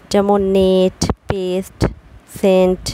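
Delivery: নেট, পেস্ট, সেন্ট with a short 'e' vowel; short e sound. Shown as a demonstration. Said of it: "দুটো কনসোনেন্টের মাঝে ই থাকলে এ উচ্চারণ হয়". (নেট পেস্ট সেন্ট-এ ছোট এ ধ্বনি)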